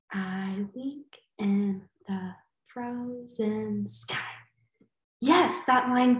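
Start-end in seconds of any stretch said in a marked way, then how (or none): 0.1-4.3 softer, slow, counting beats; I wink in the frozen sky, soft and slow; softer recount. Shown as a demonstration. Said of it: "Let's check".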